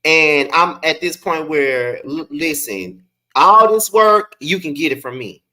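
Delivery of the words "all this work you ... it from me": defiant. Real, not acted. Defiant catchphrase.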